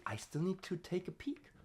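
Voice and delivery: softly whispered aside to herself. Real, not acted. Checking the vowel list mid-drill, whispered aside.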